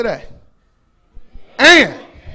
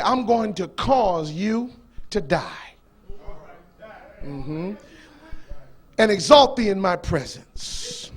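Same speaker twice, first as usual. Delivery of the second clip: voicing Allah; 6 semitones lower, 4 dB quieter than usual. A hint of God speaking to his man Jesus, softer and low. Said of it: "here's Allah talking".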